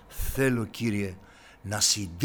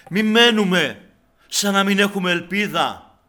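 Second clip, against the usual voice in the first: much louder and higher, urgent exhortation; preaching at full force; 9 semitones higher, 13 dB louder than usual. Real, not acted. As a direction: cry it out to the church. (κήρυγμα με όλη τη δύναμη)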